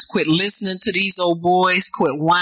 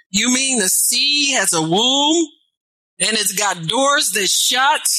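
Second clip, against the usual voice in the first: mock amazed question; 4 semitones higher than usual. Preacher voices incredulous listener.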